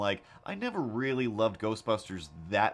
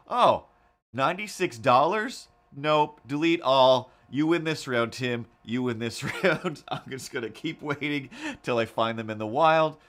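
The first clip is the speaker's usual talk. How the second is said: dramatic theatrical surrender; mock outraged defeat; 5 semitones higher, 7 dB louder than usual. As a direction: ham up the sticker shock. Dramatic defeat message to Tim.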